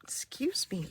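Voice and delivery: talking through hiccups; hiccupping between words. Real, not acted. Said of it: "ooh, have the hiccups".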